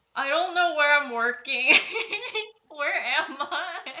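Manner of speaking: high, loud laughing disbelief.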